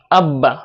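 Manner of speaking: আব্বা with the b held and doubled; doubled consonant. Shown as a demonstration. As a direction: sound the ব twice in আব্বা. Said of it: "তাসদিদের উচ্চারণ প্রতিটা হরফে দুইবার হবে". (আব্বা-তে ব দুইবার উচ্চারণ)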